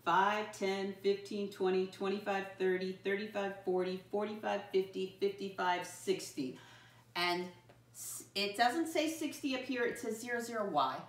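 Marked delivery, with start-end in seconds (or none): 0.0-6.6 steady, even count for a class to join; rhythmic classroom count-along; level chant, dropping on the last number; counting by fives. Shown as a demonstration. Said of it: "Let's practice counting by fives".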